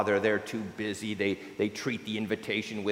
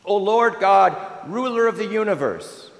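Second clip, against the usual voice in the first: higher, louder thanksgiving; joyful mother thanking God; mother cries out to God in delight; delighted cry; 8 semitones higher, 7 dB louder than usual. A narrator's reading. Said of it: "She cries out to God".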